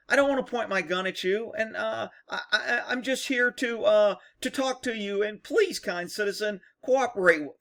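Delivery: hammed-up nervous politeness with a little laugh; mock timid pleading. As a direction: beg like a scared, polite cop. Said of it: "mocking overly polite cop".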